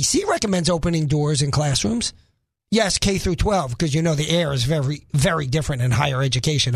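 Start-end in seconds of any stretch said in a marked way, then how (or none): 2.7-6.7 dry sarcasm, dropping lower as it goes; understated sarcastic aside. Real, not acted. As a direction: say it sarcastically, voice sinking. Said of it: "I say sarcastically".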